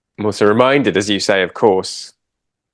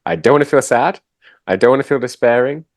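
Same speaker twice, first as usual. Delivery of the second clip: higher-pitched, lightly acted protest; mock refusal; 4 semitones higher, faster than usual. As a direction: list each refusal with a rising lilt. Voicing people who refuse all emotions.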